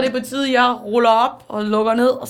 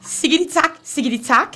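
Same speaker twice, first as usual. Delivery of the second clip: slightly raised pretend-Japanese recital; mock Japanese; 3 semitones higher than usual. Mum reads the manga story aloud, mock Japanese. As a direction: rattle off nonsense as Japanese narration. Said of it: "Hun tager den på japansk".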